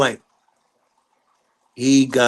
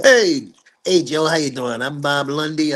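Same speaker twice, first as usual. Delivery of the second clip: retold hail to someone across a room; calling out a greeting; 2 semitones higher than usual. Father greeting Joe Jackson at his office, calling out.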